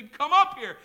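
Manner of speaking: very loud, high battle summons; commander's shout. Acted. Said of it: "going to shout".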